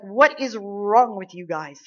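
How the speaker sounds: loud, slow, indignant challenge; acted-out exasperated challenge, drawn out; not backing down. David confronting the frightened soldiers, unyielding. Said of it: "He wasn't backing down".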